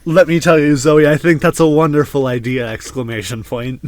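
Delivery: voice to text dictation. Pretend. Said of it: "speak like we're using voice to text".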